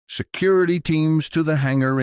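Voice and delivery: high, sharp command to the troops; commanding order. A narrator's reading. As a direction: bark the order with authority. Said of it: "Inquisitor Valdez ordered".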